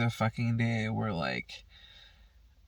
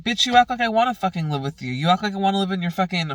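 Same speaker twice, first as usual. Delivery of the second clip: fast, higher, louder mock tirade; retold angry retort; 5 semitones higher, 5 dB louder, faster than usual. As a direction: fire it back at mom, heated. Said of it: "And I'm like".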